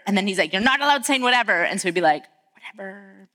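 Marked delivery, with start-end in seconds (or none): 0.5-1.6 quick, clipped dad scolding; playing dad shutting down the sass; mock stern dad. Dad telling his teens off, quick and mock stern. 2.5-3.3 almost silent whatever; muttered behind his back. Retold or imitated. Teens sassing dad behind his back, barely voiced. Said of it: "behind his back".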